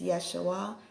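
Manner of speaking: Yeshua, opening on a Y sound; corrected name pronunciation. Shown as a demonstration. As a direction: say "Yeshua" with Y, not J. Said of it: "it's not pronounced Jesus".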